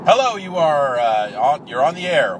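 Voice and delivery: polished radio host greeting; phone call voice. Pretend. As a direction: put on your on-air voice to greet the caller. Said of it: "get my phone call voice on".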